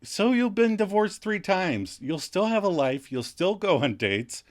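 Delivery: lightly acted reproach; mild scolding. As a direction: scold a friend with rising emphasis. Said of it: "Phoebe starts to scold him".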